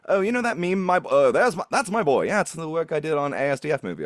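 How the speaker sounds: high, airy British man brushing it off; effeminate British accent. Retold or imitated. Retelling the podcast host explaining his meme voice, light British lilt. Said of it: "this incredibly effeminate British dude".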